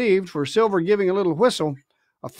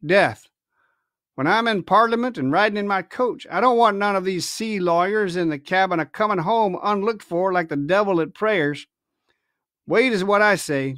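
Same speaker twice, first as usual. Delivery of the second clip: ruthless pirate captain; 2 semitones higher than usual. Acted. Silver deciding fate.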